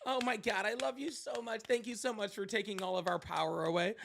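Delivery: high, gushing adoring voice; fawning sycophant. Retold or imitated. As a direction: gush like a starstruck lackey. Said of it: "And they're just like".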